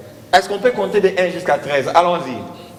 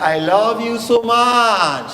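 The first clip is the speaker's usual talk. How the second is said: slowly; 5 semitones higher, slower than usual. Shown as a demonstration. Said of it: "tu fais comme ça".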